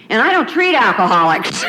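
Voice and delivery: quoting the doctor through a laugh; amused retelling of the doctor; laughing quote. Retold or imitated.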